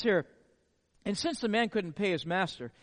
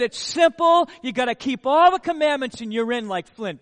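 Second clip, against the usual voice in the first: loud, breezy mock answer; tossing it off like an easy answer; mock casual Jesus reply, loud; voicing Jesus; 7 dB louder than usual. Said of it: "And Jesus said".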